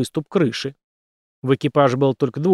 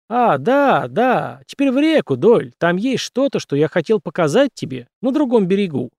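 eerie creature voice; 5 semitones higher than usual. Acted. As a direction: coax him toward the river, eerily. Creepy beggar creature calls Doyle. (жуткий голос существа)

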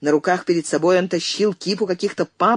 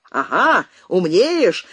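воскликнул; 3 semitones higher, much slower than usual. Acted. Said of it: "воскликнул Изя".

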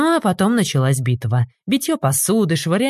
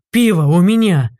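louder triumphant shout; 2 semitones higher, 5 dB louder than usual. A narrator's reading. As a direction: brag over the stolen beer. Gelal shouting while fleeing. (Гелал радостно кричит)

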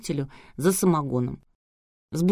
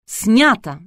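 higher, louder happy shout from the control room; joyful call; 5 semitones higher, 8 dB louder than usual. A narrator's reading. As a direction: call out cheerfully that it's a wrap. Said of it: "радостно сообщили из аппаратной".

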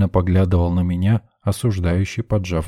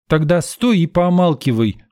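sharp, higher, louder snap; curt retort; 9 semitones higher, 4 dB louder than usual. A narrator's reading. Saleswoman snapping at a man in the queue, curt. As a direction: shut him down flatly. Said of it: "припечатала тётка".

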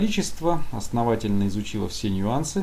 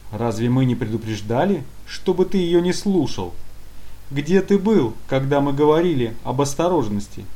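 loud dressing-down of a subordinate; scolding; 3 semitones higher, 4 dB louder than usual. Acted. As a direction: tear into him, scolding loudly. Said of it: "продолжал устраивать разнос".

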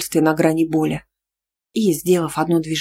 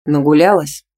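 a louder barked jab; 5 dB louder than usual. A narrator's reading. Boyfriend barks at her for being out all evening. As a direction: spit the question out, jealous. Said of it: "рявкнул он".

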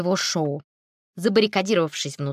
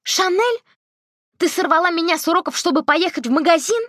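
high, fast, outraged questions; shocked she was dragged to a shop; indignant disbelief; 10 semitones higher, 4 dB louder than usual. A narrator's reading. Girl protests to her grandmother, high and outraged.

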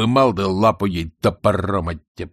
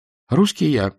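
unsure; 5 semitones higher, 3 dB louder than usual. A narrator's reading. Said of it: "видимо, неуверенный".

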